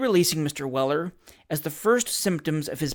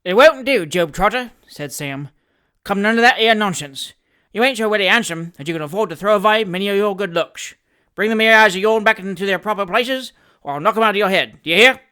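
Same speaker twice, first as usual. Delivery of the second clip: threatening scold; 3 semitones higher, 6 dB louder, faster than usual. Acted. Sam warns Job Trotter to stop pulling faces, loud threat. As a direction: threaten him to drop the act. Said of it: "the spirit of this address".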